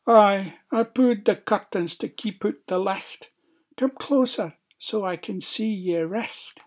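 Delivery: high-pitched fake granny; put-on old lady voice. A narrator's reading. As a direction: lure the child closer in a pretend granny voice. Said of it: "put on his best old lady's voice".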